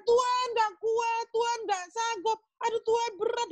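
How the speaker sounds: hammed-up wail of someone giving up; mock crying out. Struggling believer cries to God far from the limit, mock wailing. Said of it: "Udah teriak-teriak".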